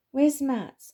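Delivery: high, loud anxious call; loud worried question; alarmed call. Acted. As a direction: call out looking for the missing friend. Friend missing amid the geese.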